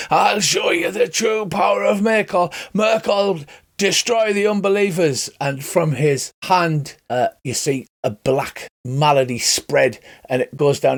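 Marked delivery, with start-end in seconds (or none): 0.1-5.3 high, theatrical battle invocation; crying out. Acted. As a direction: call on your god in a raised voice. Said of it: "he cries out".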